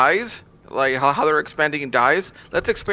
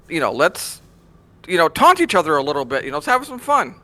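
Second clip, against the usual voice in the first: mock-enthusiastic pleading with swinging pitch; lively, tongue-in-cheek trolling pitch; sarcastic. Real, not acted. Trolling the other panelists about bringing back cross-realm chat, sarcastic. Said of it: "sensing a bit of sarcasm in your voice".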